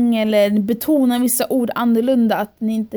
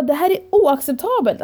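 raised higher, indignant and firm; "oacceptabelt" pressed hard, a step up from her usual voice; retold anger; 4 semitones higher than usual. Telling the manager off, retold with anger. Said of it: "och jag blev så arg".

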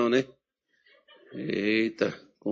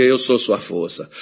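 lower, slower calm divine voice; voice of God; 4 semitones lower, slower than usual. Retold or imitated. God reassuring the pastor again, calm. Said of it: "Deus dizia".

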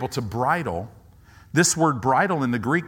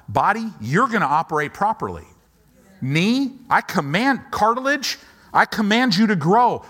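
loud, higher commanding declaration; bold faith command; 7 semitones higher, 6 dB louder than usual. Shown as a demonstration. Pastor demonstrating to congregation how to command the body, loudly. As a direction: order your knee to heal like you mean it.

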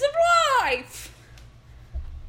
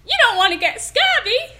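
higher, louder hammed-up stage pirate; pirate accent; 5 semitones higher, 4 dB louder than usual. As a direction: play the salty pirate hawking vitamins. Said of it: "I'm so good at accents".

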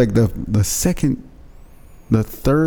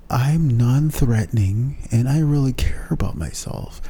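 soft non-threatening voice; 4 dB quieter than usual. Retold or imitated. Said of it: "you gotta talk in that way".

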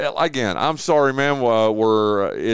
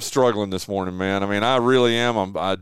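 feeling sick; 6 semitones lower than usual. Real, not acted. Host telling guest he feels sick this morning. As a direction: drag through it, unwell. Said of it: "I don't feel good".

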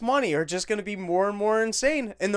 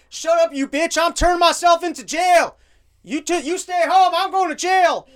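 much higher, loud mock yelling; mock scream; 11 semitones higher, 8 dB louder than usual. Man yelling back at someone while heading to jail, hammed-up scream. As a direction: scream like an unhinged man turning himself in. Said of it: "He turns around to scream at someone like".

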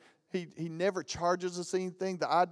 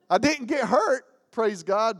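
excited relief; 7 semitones higher, 8 dB louder than usual. Real, not acted. Relief after truck crash.

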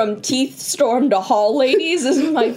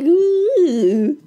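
higher, drawn-out ooh; imitated "ooh" noise; 5 semitones higher than usual. Answering with a noise instead of a word, drawn-out ooh. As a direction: voice a long wordless reaction. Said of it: "felt like he was like".

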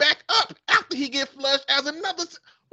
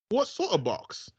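put-on man's British accent; 3 semitones lower, 4 dB quieter than usual. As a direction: read it like a smug English gentleman. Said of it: "man and a woman accent".

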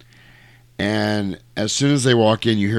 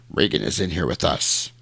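lightly voiced demon, pitched lower; a hint of a demon in a lowered voice; Pazuzu; 5 semitones lower, 3 dB quieter than usual. Demon answering the priest about Regan, lightly voiced. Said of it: "And Pazuzu says".

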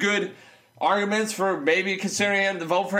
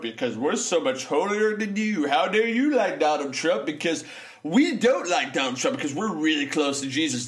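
mocking self-righteous Christians; 5 semitones lower than usual. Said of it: "I'm reading there".

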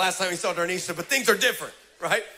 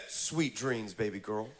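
hushed, lower, crooning; smooth Antoine; 8 semitones lower, 8 dB quieter, slower than usual. Retold or imitated. Preacher voicing Antoine's goodnight text as a soft croon. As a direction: croon it like a would-be charmer. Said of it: "And he said".

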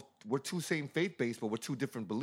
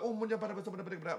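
mock tongues; 5 semitones higher, 5 dB quieter, much faster than usual. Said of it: "they just get into praying".

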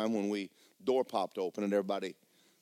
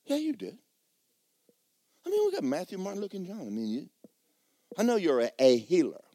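much higher, pleading voice; high pleading protest; 7 semitones higher than usual. Retold or imitated. Preacher arguing with God about his daughter, high and pleading. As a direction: protest it up high like a hurt child.

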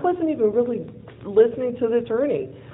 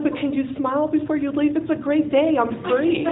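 gleeful; 7 semitones higher than usual. Retold or imitated. Cheerful request to departing officer.

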